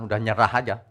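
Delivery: ordinary talk, nothing marked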